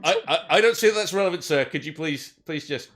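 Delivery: officer at the door, formal and careful; elf police officer. Acted.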